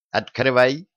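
barked order; fierce command. Acted. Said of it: "приказала Янка Жучку, сделав зверскую физиономию".

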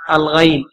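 "الغيل" with an ay glide, al-ghayl; fatha on ghayn. Shown as a demonstration. Reader giving the word's variant form, fatha on ghayn. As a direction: say "الغيل" with short a before the y. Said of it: "بفتح العين".

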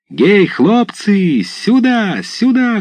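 slow, high, loud summons; calling out. A narrator's reading. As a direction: call the lads over, high and drawn out. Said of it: "кричал он, махая рукою к парубкам".

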